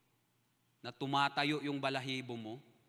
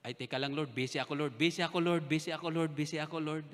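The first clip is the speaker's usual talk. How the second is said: mock excuses.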